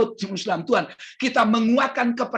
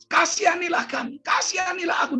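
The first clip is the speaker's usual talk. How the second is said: higher-pitched mock cry for mercy; imitated shouting plea; 6 semitones higher than usual. Blind Bartimeus crying to Jesus for mercy, half-shouted imitation. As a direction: call out pleadingly, without full volume. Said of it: "dia berteriak-teriak".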